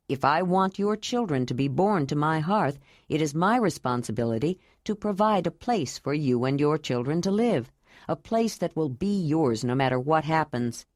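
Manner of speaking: a grave, tender vow, voiced a bit low; Jondalar.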